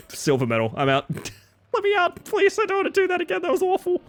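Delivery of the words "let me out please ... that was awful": high squeaky begging; high pleading whine. Real, not acted. Begging after awful run.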